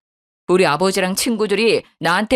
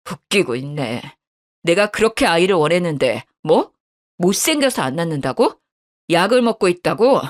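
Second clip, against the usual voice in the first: scornful husband confronting his wife; cold angry husband. Acted. Husband scorns her excuses.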